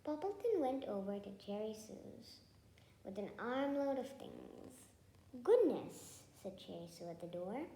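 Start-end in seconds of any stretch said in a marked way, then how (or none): 5.4-6.2 surprised. A narrator's reading. Surprised neighbour at the door.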